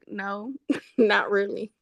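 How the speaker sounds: slow, giggling "no"; laughing denial. Retold or imitated. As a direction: deny it while cracking up. Laughing reply to mom.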